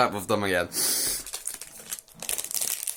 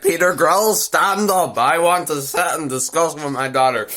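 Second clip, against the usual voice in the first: put-on big old man; 3 semitones higher than usual. Father summons the suitor at the banquet, mock stern command. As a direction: imitate a stern father giving an order. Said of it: "the big old man".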